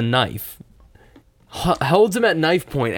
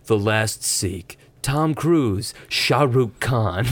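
hammed-up movie trailer narrator; 2 semitones lower, much slower than usual. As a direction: announce it like a blockbuster. Mock movie trailer credits.

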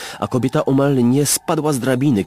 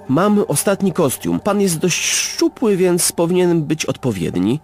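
shop assistant voice; 9 semitones higher than usual. A narrator's reading. Shopkeeper offers the last costume, higher voice. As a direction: pitch it up as the nervous shopkeeper.

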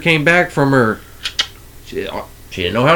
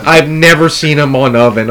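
real laughter; 2 semitones higher, 7 dB louder than usual. Real, not acted. Telling friends about Chris on the oven, laughing loud. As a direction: laugh hard, then talk through it.

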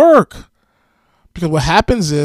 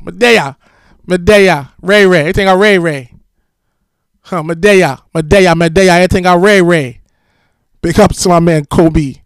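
Jamaican patois; 2 semitones higher, 5 dB louder than usual. Retold or imitated. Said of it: "open with the, with the patois".

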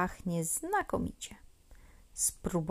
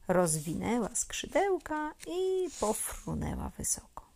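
usual speaking voice

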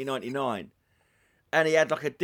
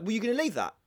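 imitated nutcase boss; 8 semitones higher, faster than usual. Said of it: "it was like a nutcase".

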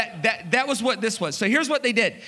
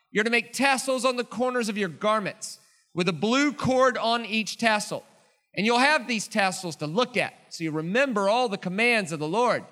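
scripture reading. Acted. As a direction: read scripture with solemn pauses. Reads scripture aloud.

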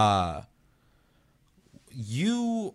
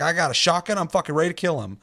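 raised-pitch, hyped imitation; pumped up; 7 semitones higher, 4 dB louder than usual. Player with a shotgun eager to kill Jason, pumped up. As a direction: mimic a player itching to attack. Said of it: "That guy was so fucking pumped".

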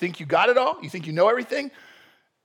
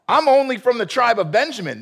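higher-pitched self-pitying protest; mock whining; 6 semitones higher, 3 dB louder than usual. Saul answers the call to be king, mock whining. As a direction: whine it as an excuse. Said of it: "he's still whining about being a nobody".

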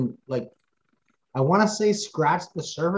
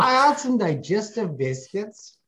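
pitched up, slow Scottish-tinged voice; Michael McCall impression; 6 semitones higher, slower than usual. Co-host channels Michael McCall for the team's name, high slow Scottish lilt. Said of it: "trying to channel my, like, Michael McCall".

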